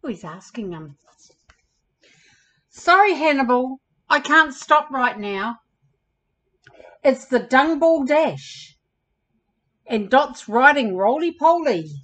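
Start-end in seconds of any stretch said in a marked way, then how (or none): 2.7-11.9 lightly voiced hurried bug, a bit louder; storybook bug too busy to stop; brisk, apologetic character read. Busy bug friend speaks.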